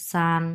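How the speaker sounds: সান held on one even note; sustained level-tone সান; first tone. Shown as a demonstration. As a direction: keep সান long and level. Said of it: "এটাও প্রথম tone".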